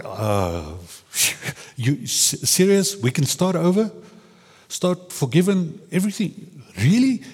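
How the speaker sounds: high, giddy amazement with a laugh; laughing, high-pitched disbelief; delighted disbelief. Retold or imitated. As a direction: ask as if you can't believe your luck. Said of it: "They, they're like".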